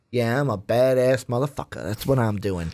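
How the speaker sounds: lightly voiced swaggering Lando; cocky Lando swagger. Host voicing how Lando looks in the trailer, lightly cocky. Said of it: "he's just looking like".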